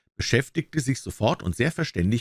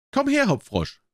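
king calling out. A narrator's reading. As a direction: call the jester over imperiously. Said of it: "rief er".

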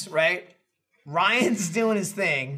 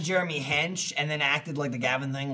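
ordinary talk, nothing marked

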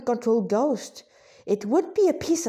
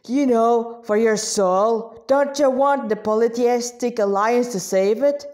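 berserker demon guard; 4 dB louder than usual. Acted. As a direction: lean in like a demon recruiter. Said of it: "addressed them".

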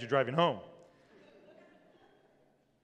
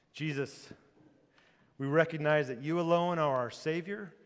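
prayer; 2 semitones lower than usual. Acted. Closing prayer.

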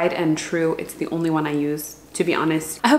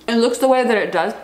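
talking while chewing; words round a bite of food; mouth full; 3 semitones higher, 4 dB louder than usual. Real, not acted. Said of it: "I should probably stop chewing".

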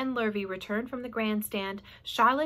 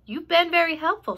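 Charlotte's voice; 7 semitones higher, 8 dB louder than usual. Acted. Charlotte dismissing rat.

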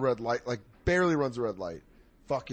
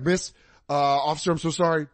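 nervous rambling; 4 semitones higher, 5 dB louder than usual. Retold or imitated. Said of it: "mushroom talking".

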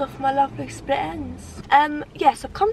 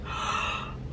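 yawn gasp; 7 dB quieter than usual. Real, not acted. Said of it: "I'm yawning".

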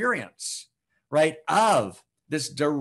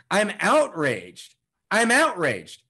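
indignant, drawn-out declaration; outraged; 3 dB louder, slower than usual. Real, not acted. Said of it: "We're angry and we need".

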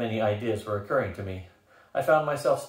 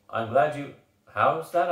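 higher, louder startled sputter; 4 semitones higher, 5 dB louder, slower than usual. A narrator's reading. Leader caught off guard by her refusal, sputtering. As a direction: break off, then burst out in surprise. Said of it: "I sputtered".

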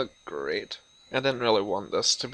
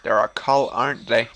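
louder, startled question; alarmed exclaim; 2 semitones lower, 7 dB louder than usual. Real, not acted. Gamer realizing the characters are a cult, loud and startled. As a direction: blurt it out in alarm.

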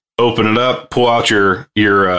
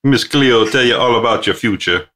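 badly faked Jamaican accent; lightly voiced TV psychic with a butchered Jamaican accent; Miss Cleo. Host plugging fortune-telling to co-host, botched Jamaican accent. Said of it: "I really butchered that accent".

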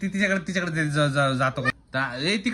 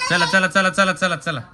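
louder eager chant of चला; cheering on; 3 semitones higher, 5 dB louder than usual. Real, not acted. Parent cheering baby across the floor, louder eager chant. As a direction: keep the cheer going.

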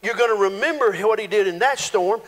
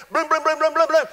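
mock blasts; 6 semitones higher than usual. Mimicking Jeremiah's blasts.

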